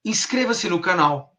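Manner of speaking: slow, even "Inscreva-se no canal", ending in a fall; statement intonation. Shown as a demonstration. Hypnotherapist demonstrates three tones, neutral statement. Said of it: "A minha terceira entonação".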